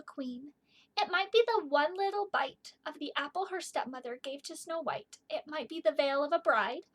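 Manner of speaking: gentle storybook reading; reading to children. Acted. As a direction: read it like a bedtime poem. Reads poem aloud.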